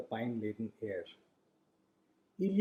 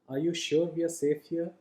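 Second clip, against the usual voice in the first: anxious, raised questioning voice; suspicious; 5 semitones higher than usual. A narrator's reading. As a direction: ask it with wide-eyed worry. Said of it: "his eyes wide with suspicion".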